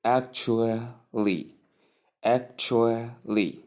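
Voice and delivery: slow ACTUALLY as ak-choo-lee; correct pronunciation. Shown as a demonstration. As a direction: model "actually" syllable by syllable, clear choo. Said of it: "say it like".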